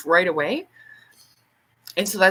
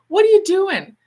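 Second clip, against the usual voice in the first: higher and louder startled cry; alarmed outburst; 12 semitones higher, 8 dB louder than usual. Retold or imitated. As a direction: shout it, caught off guard. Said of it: "And she says".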